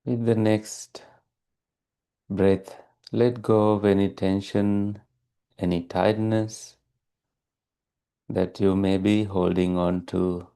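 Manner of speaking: calm, even meditation guidance with long pauses; unhurried, steady meditation teacher delivery; guided meditation. Real, not acted. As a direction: guide listeners gently into stillness, leaving long silences.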